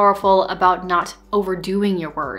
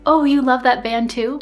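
excited aside; 5 semitones higher, 6 dB louder than usual. Pretend. Touch while accentuating something in conversation.

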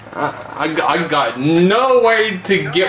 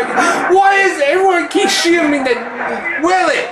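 outraged shout; 8 semitones higher than usual. Real, not acted. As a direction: yell it in disbelief. Outraged shout at being shot.

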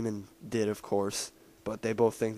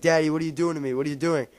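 higher, frightened cry to her dad; a hint of a scared girl begging; mock panicked plea; 5 semitones higher, much faster than usual. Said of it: "she starts freaking out".

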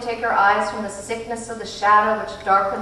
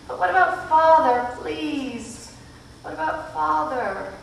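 higher, pressing plea; anxious plea; 8 semitones higher than usual. A narrator's reading. Meg begging about her father, high and anxious. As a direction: push for an answer, desperate.

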